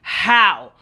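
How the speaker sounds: loud, punchy retold challenge; mock-aggressive demand; imitated aggression. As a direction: mimic a boss pushing back. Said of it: "he starts to get very aggressive".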